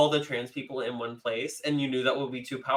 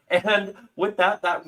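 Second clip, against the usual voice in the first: slow, higher show-host wrap-up; 8 semitones higher, 4 dB louder, slower than usual. Shown as a demonstration. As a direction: announce it like a TV host. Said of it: "I forgot I was hosting".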